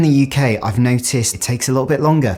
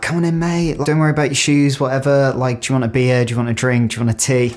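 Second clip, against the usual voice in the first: imitating Aussie host; 3 semitones higher, faster than usual. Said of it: "it's immediately like".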